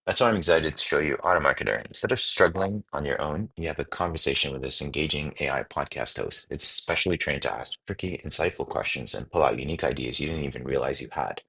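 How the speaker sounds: upbeat promo voiceover; ad read. Acted. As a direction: read it like a social media ad. Reads ad script aloud.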